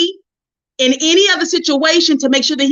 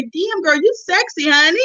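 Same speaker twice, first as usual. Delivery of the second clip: hyped-up self-praise; 6 semitones higher than usual. Retold or imitated. Hyping herself up in mirror.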